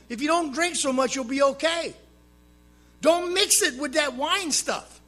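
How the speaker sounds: preachy advice, voiced high and loud; a hint of a scolding busybody; mock lecturing voice. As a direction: imitate the know-it-all advisers. People lecturing him on drinking.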